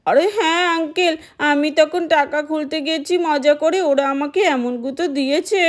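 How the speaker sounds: a hint of a whiny little boy telling tales; child telling uncle the sheep butted him.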